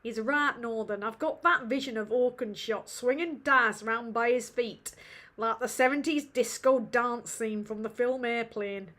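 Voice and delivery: put-on amateur northern English accent, Yorkshire vowels; attempted Yorkshire accent. Streamer imitating a northern friend's comment, attempted Yorkshire accent. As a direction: have a rough go at a Yorkshire accent. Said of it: "I can't do his accent".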